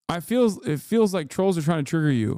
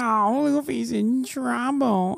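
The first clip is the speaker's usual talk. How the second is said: mocking chatter; 9 semitones higher than usual. Mocking chat voice.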